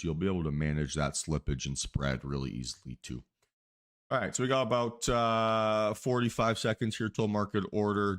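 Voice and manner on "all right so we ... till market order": airline captain announcement voice; pilot impression. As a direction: speak like a captain over the intercom. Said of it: "Did my best pilot impression there".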